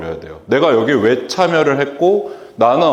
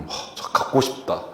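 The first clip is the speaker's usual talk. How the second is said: whispered aside; 10 dB quieter than usual. Retold or imitated. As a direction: whisper it to yourself. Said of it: "이렇게 생각을 하고 싶을 정도로".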